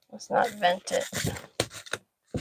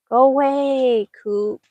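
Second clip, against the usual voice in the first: shooing cat; 4 semitones higher, 8 dB louder, slower than usual. Real, not acted.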